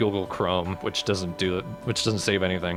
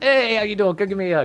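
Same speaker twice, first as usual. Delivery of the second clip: put-on nasal accent, much higher pitch; 11 semitones higher, 5 dB louder than usual. Naming a creature Jabrooklyn and giving it a voice: Jabrooklyn Brooklyn accent.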